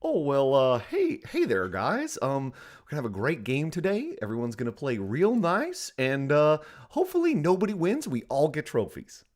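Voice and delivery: friendly youth sports coach; cheery kids' coach pep talk; Kurt coach voice. Acted. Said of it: "That felt like Kurt's voice".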